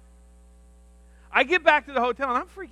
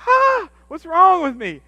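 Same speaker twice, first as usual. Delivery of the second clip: slow, louder and higher panicked cry; mock panic; 8 semitones higher, 8 dB louder, slower than usual. Pastor panicking at swollen hands, higher, louder and slow. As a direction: let the alarm rise on ah. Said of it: "I'm like".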